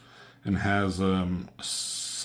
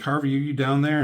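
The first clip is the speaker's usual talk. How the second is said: louder and higher, quick call down to Harvey; 6 semitones higher, 5 dB louder, faster than usual. Retold or imitated. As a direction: call down the stairs to him. Wife calling down to Harvey.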